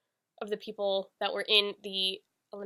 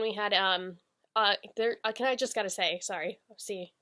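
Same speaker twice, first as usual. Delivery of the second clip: stumbling over words, tongue-tied. Real, not acted. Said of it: "getting tongue-tied 'cause I'm just so excited".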